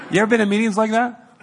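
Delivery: fast amused aside to the congregation; laughing aside. Real, not acted. Laughing about phone joke.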